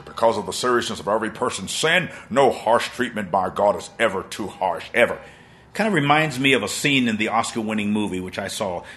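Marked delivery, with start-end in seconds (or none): 0.0-5.2 a lightly changed preacher voice; quoting the preacher. Retold or imitated. To the audience, quoting the preacher in a lightly changed voice. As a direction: read it as the preacher would. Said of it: "says this preacher".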